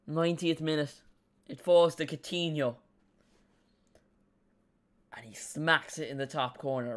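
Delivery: lightly imitated football commentator; Peter Drury. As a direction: build the imagined last-minute goal like commentary. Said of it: "that's a Peter Drury-esque commentary".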